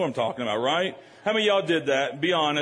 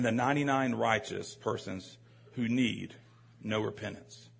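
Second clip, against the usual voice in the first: measured, lower reading voice; scripture reading; 4 semitones lower than usual. Real, not acted. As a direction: read the parable aloud to a congregation. Reads scripture aloud.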